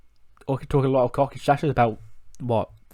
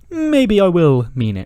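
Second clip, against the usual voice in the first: menacing threat; 8 semitones higher, 9 dB louder, slower than usual. Retold or imitated. Cesaro threatens Johnny on Talking Smack.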